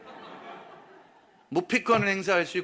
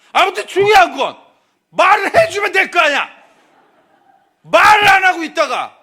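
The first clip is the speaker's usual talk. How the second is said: higher, louder mock shout; angry yell; 8 semitones higher, 13 dB louder than usual. Wife shouting at her husband to just say it, mock yell. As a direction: snap it at the husband.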